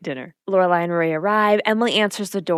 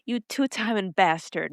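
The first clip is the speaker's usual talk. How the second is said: mock accusation; 6 dB quieter than usual. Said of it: "I'm like".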